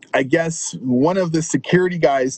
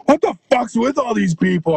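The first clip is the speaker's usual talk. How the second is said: mock baffled outcry; 6 semitones higher than usual. Bar owner running up baffled.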